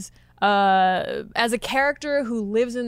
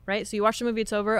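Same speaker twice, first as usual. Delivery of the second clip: normal talking voice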